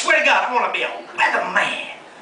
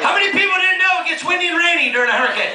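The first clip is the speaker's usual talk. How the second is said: incredulous; 7 semitones higher, faster than usual. Real, not acted. Incredulous rant.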